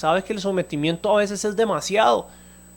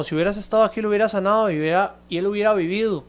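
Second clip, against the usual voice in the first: tono de reclamo; 3 semitones higher, faster than usual. Retold or imitated. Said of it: "Y fue en tono de reclamo".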